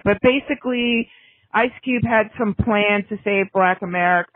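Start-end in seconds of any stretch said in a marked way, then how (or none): 1.5-4.3 dry, understated sarcasm; lightly mocking the grand plan; sarcastic. Real, not acted. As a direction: say it with a touch of snark. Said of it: "I'm being sarcastic".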